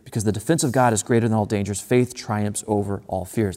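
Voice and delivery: first half rushed, "faith" slowed and stressed; quick then slow repeat. Shown as a demonstration. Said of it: "I think this line is so good".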